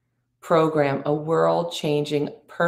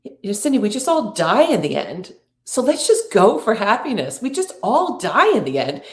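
quoting her with light urgency, slightly raised pitch; simple urgency; 4 semitones higher, 3 dB louder than usual. Retold or imitated. Sister-in-law urging Cindy to go for happiness, mild simple urgency. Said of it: "she says it with such simple urgency".

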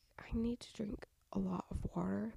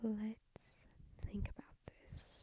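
blocked-nose whisper; stuffy nose; 2 semitones higher, 8 dB quieter, much slower than usual. Real, not acted. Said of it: "my nose is all stuffy".

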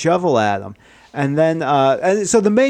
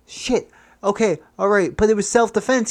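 higher, anxious self-justifying; acted panic; 6 semitones higher, faster than usual. Killer claiming self-defense to his friend, panicky. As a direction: pitch it up, scrambling for an excuse.

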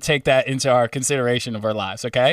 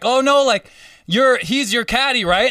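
panicked surprise; 8 semitones higher, 3 dB louder than usual. Retold or imitated. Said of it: "They're like".

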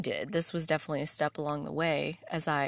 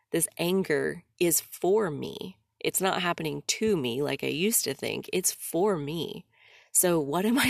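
retold angry message. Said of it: "I told her, I'm like".

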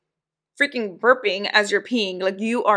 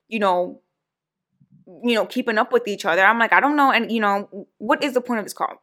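going off. Retold or imitated. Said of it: "I went off".

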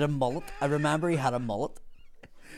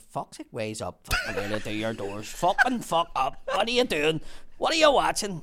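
hammed-up workman bellowing over the TV; mock yell; 3 semitones higher than usual. Apprentice retelling how Bumper barged in: mock yell.

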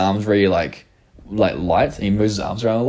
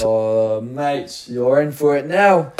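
drawn-out British threat; slow, hammed-up British warning to a mate; mock British accent; 3 semitones higher, much slower than usual. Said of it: "imagine when, like, Ahmed dies".

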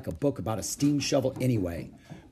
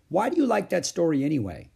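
higher-pitched, mildly exasperated; exasperated question; 6 semitones higher than usual. A narrator's reading. Beezus asking her stubborn little sister, mildly exasperated. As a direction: ask it in baffled protest.

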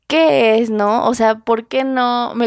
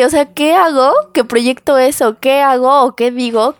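louder, higher, pleading questions; exasperated; 3 semitones higher, 4 dB louder than usual. Retold or imitated. Asking herself what she does wrong, exasperated and louder. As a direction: demand an answer from yourself, exasperated.

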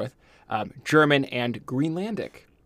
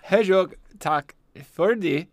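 French accent; slower than usual. Shown as a demonstration. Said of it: "I'm flipping it out like French".

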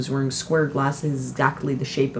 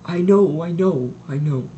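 heavily; 3 semitones higher, 5 dB louder than usual. A narrator's reading. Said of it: "he said heavily".

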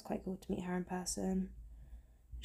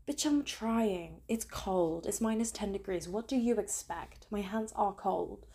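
exasperated protest; slower than usual. Retold or imitated. Retold protest to security guard.

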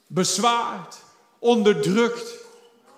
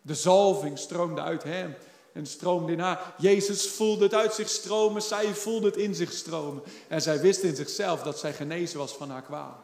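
soft, lowered preaching voice; hushed storytelling; 4 semitones lower, 8 dB quieter than usual. A narrator's reading. Preacher telling the church of the woman's healing, hushed. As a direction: bring it right down, quiet and intimate. Preacher drops down after the climax.

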